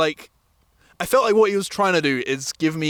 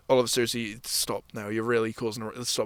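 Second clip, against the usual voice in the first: low, soft, serious telling-off; imitated hushed warning; 8 semitones lower, 8 dB quieter than usual. Friend warning him to stop, hushed and low. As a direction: imitate a friend quietly urging restraint.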